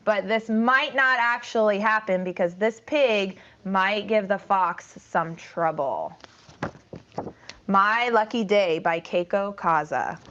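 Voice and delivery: bright storytime voice for a class; reading to children. Acted. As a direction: draw the kids into the story.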